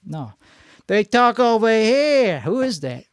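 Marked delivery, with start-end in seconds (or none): 0.9-2.4 politician cadence. Acted. Podcaster demonstrating how good politicians talk, slow. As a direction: drag it out like a smooth politician. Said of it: "I sound like Rickles or something".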